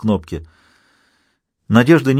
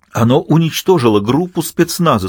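voice breaking; 5 semitones higher than usual. Acted. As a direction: panicky cracked voice. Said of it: "сообщил он срывающимся голосом".

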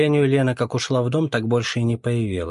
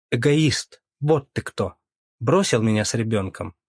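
прорвало. Acted. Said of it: "Её словно прорвало".

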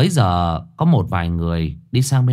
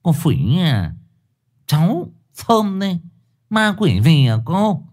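forced smile; 7 semitones higher than usual. Acted. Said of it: "mím môi cười trừ".

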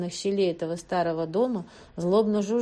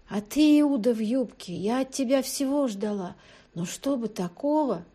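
hurt reproach, higher pitched; stung by betrayal, reproaching; wounded accusing tone toward a traitor; offended; 4 semitones higher than usual. A narrator's reading. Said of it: "обиженно произнесла Слепянская".

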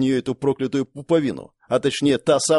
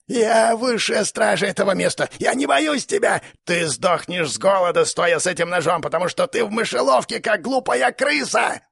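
high shrieking creature rant; raging monster; 7 semitones higher than usual. Acted. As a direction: screech out the threats. Monster keeper ranting.

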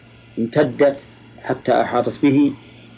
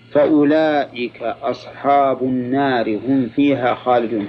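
slow, deliberate recitation of scripture; unhurried formal Quran reading; measured verse reading; slower than usual. Real, not acted. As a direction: read the verse slowly, every ending voiced.

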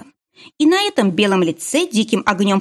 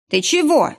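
taken aback; 7 semitones higher than usual. A narrator's reading. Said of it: "оторопел Семёнов".

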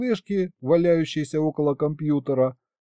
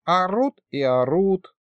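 high, slow whine; aggrieved, stretched-out moan; complaining; 7 semitones higher, slower than usual. A narrator's reading. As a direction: grumble like a put-upon old man. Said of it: "пожаловался моему компьютеру колдун".

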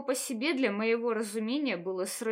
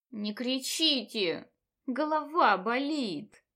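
complaining; slower than usual. Acted. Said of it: "пожаловалась я".

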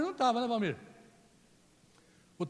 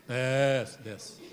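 mock scolding; 8 semitones lower, 3 dB louder than usual. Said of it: "tô brincando com o Décio".

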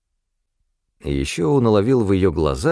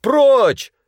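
high, loud «Прочь» barked; man shouting at the manager; 14 semitones higher, 5 dB louder than usual. A narrator's reading. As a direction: yell him away. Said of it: "крикнул Князев".

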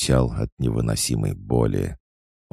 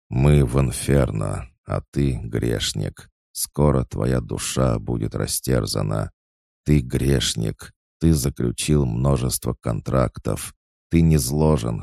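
ordinary delivery, nothing marked

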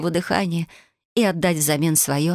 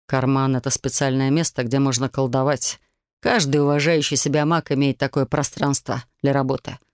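lower, calm explaining voice; lightly voiced demon; 4 semitones lower than usual. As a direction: explain like a patient mage.

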